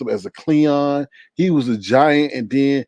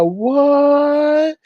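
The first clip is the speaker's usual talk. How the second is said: high, startled little what; a kid recoiling from a gift box; boy's shocked what; 14 semitones higher, 4 dB louder than usual. Acted. The boy opening the box and finding the dead cat, high and startled.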